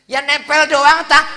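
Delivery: high, loud, wheedling woman's voice; coaxing woman.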